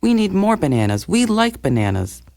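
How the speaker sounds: a lightly voiced monkey crowd crying out; protesting monkeys. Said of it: "They said".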